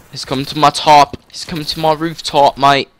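lightly put-on British accent. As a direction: slip into a cockney mate voice. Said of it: "Why do I keep doing frickin' accents?".

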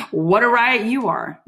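high, drawn-out sarcastic retort after a laugh; mock amusement. Juliet answering the prisoner's jibe, sarcastically amused. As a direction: stretch it out with mocking glee.

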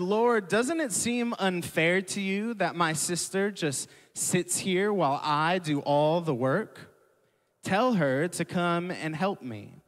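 a lightly voiced Martha pleading unfairly; complaining Martha.

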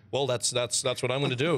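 dry calm dub. Retold or imitated. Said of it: "he's very, dry calm".

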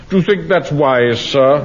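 mocking Wilson's lofty drawl down the nose; lightly mocking a superior clerk; supercilious voice. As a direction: imitate a snooty clerk, looking down your nose. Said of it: "in that supercilious voice".

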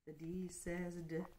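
soft hushed letter sound; letter sound whisper. Acted. Teacher whispering the letter sound to kids. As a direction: breathe the d sound gently.

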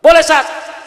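high, loud pleading question; pleading imam. Retold or imitated. Imam begging the ustadz to let him pray in Tangerang talk, high pleading voice. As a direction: beg the ustadz for permission like a nervous imam.

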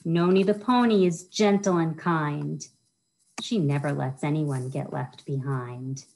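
lilting rhyme-reading voice, bouncing on each rhyme; reading to children. Acted. Children's librarian reads a rhyming book to kids, sing-song storytime voice. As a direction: read it like storytime for little kids.

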